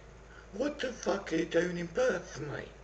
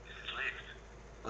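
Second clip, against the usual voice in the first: put-on slurred drunk; 5 semitones lower, 13 dB quieter, much slower than usual. Drunk caller insists it's Lyft.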